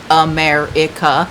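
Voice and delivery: America said slowly, the syllable "me" stressed and drawn out; America with heavy English stress on the second syllable; American stress pattern. Shown as a demonstration. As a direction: lean hard on the "me" in America, slowly. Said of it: "did you hear that?".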